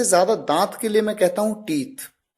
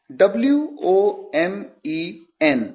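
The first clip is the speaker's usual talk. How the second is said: slow spelling; slower than usual. Shown as a demonstration. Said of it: "मैंने कहा".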